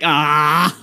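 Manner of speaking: high giggling no-dude; real laughter breaking the words; laughing protest. Real, not acted. Cracking up at his friend's roast, laughing.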